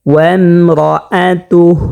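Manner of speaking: slow ওয়ামরাআতুহ with a thick, rounded রা; measured recited ওয়ামরাআতুহ, full heavy r; heavy R recitation. Shown as a demonstration. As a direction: thicken রা in ওয়ামরাআতুহ and stop on a breathed h. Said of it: "রাকে মোটা করতে হবে".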